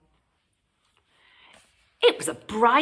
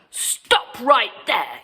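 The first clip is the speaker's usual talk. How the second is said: louder, slow commanding yell; Granny yelling at the wolf; 4 semitones higher, 5 dB louder, slower than usual. Acted. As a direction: order him to freeze. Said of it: "yelled Granny".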